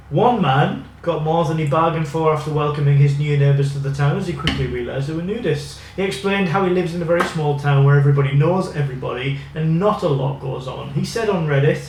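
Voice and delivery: reading an article aloud; news reading. Acted. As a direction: read it out like a news piece.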